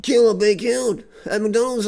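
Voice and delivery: ordinary delivery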